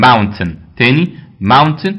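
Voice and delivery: mountain said slowly and carefully, stressed on the first syllable; teacher slowly modelling mountain; correct pronunciation. Shown as a demonstration. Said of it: "اوعى تقولها".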